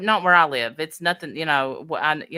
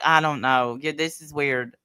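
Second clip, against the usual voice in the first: imitated B B T; 5 semitones lower than usual. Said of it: "B B T's over there like".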